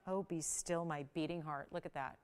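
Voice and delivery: soft, hushed marvelling at the stone; hushed awe. Real, not acted. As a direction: breathe it out in quiet awe. Host marvels at ring on hand.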